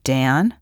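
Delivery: DAN said tentatively, like a question; questioning answer. A narrator's reading. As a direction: answer DAN as if unsure it will be recognized. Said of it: "sounded more like a question than an answer".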